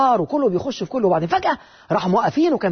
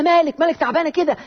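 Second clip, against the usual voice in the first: higher-pitched imitation of a woman; mock concern in a raised voice; concerned friend; 6 semitones higher than usual. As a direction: ask like a worried girlfriend, lightly voiced.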